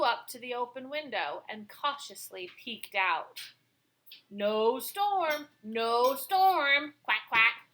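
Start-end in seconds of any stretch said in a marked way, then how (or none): 4.3-7.7 quacked. Acted. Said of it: "he quacked".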